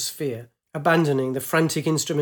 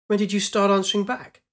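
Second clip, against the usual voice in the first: higher startled challenge; indignant surprise; 6 semitones higher than usual. Acted. Pilot startled her sphere talks back, indignant. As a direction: call out the talking sphere.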